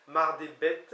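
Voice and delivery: Mardébet with a rising tune, carefully articulated; pronunciation demo. Shown as a demonstration. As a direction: model Mardébet for the class. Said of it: "on prononce Mardé". (prononcer Mardébet clairement, intonation montante)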